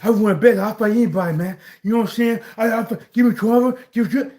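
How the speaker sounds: lightly voiced slurred boxer; imitating punch-drunk fighter. Shown as a demonstration. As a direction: act mildly punch-drunk, speech messed up. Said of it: "you start talking like this".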